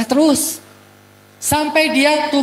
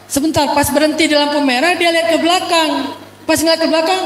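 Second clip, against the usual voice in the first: ordinary talk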